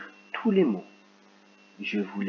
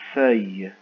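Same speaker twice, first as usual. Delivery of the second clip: louder with the ending clear; clear dictation; 3 semitones lower, 6 dB louder than usual. Shown as a demonstration. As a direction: land on the final Y sound. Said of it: "C'est parti".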